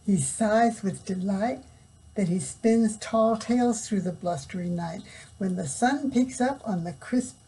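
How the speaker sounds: lively storybook read-aloud; reading to children. Acted. Reading picture book to children.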